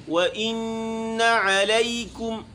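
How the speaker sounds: إِنَّ with a light nasal hum on the nun; nasalized إِنَّ; nasal ghunna. Shown as a demonstration. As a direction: send the nun of إِنَّ into the nose. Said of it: "ان میں غنہ کرنا ہے".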